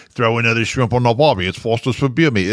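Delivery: lightly put-on dumb Aussie voice; jokey hint of Australian in a catchphrase; mock Australian accent. Shown as a demonstration. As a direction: demonstrate a silly Australian accent. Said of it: "when I do a mock".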